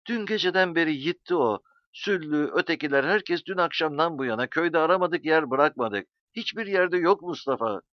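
high, wailing plea full of fear; understated moaning dread, pitched high; fearful lament. A narrator's reading. Tearful Zero telling İsmail Ağa that Mustafa is missing, fearful. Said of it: "Sesi korku doluydu, bir ağıt, bir inilti gibiydi".

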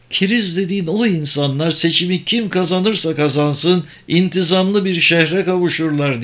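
a lightly voiced mage explaining the scheme; kendinden emin büyücü. Sabır corrects Locke. (kendinden emin, açıklayan büyücü sesi)

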